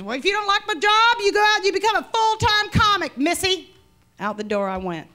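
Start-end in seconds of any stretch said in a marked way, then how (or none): 0.0-3.7 high, loud mocking boss; condescending boss. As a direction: sneer "missy" at her. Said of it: "He goes".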